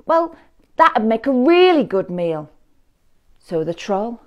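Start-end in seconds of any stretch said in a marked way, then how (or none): 0.0-2.5 high, hesitant goat; nervous goat voice. A narrator's reading. Middle goat talking the troll out of eating him, high and hesitant. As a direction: stall for time, a little scared.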